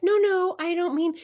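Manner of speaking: high, hurried backpedal; flustered stepmom. Retold or imitated. Stepmom correcting herself on the phone, high flustered denial. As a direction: quickly take it back, surprised.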